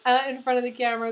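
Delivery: embarrassed giggle while crying; wiping tears, laughing it off; laughing through tears. Real, not acted. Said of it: "I don't wanna keep crying".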